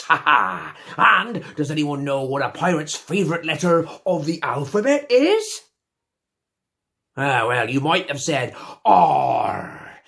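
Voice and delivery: hammed-up swaggering pirate captain; a theatrical pirate telling his tale. Comic pirate captain character throughout.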